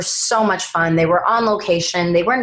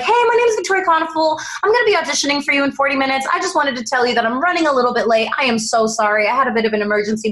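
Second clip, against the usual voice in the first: high, fast, breathless apology tumbling out; nervous rushed apology; 5 semitones higher, much faster than usual. Retold or imitated. Actress late and covered in gas calls casting director, rushed and high. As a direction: rattle it off fast and anxious.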